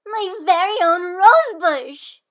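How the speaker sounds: high, loud and slow, full of joy; overjoyed child; thrilled. Acted. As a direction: savor every word of the claim. Girl claims the bush.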